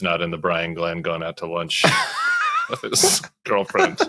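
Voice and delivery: words dissolving into laughter; can't hold the joke together; laughing at the Brian Glenn lunch jab; laughing through it. Real, not acted. Joking aside, breaking into laughter.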